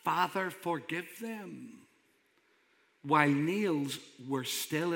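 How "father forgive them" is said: slow, hushed plea of prayer; soft, drawn-out quoted prayer; imitated prayer. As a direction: pray it slowly and gently. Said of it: "a king who prayed".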